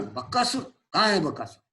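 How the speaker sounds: mock surprise. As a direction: snap your head round, pretending to be amazed. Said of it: "तो भीम एकदम".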